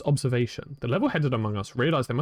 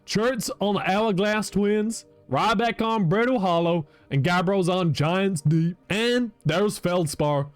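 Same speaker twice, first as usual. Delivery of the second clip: put-on slow, drawn-out folksy old-timer; slow folksy NPC; 2 semitones higher, slower than usual. The museum keeper telling the player about the missing travelers in a slow folksy drawl. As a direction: take it slow like a country elder telling news.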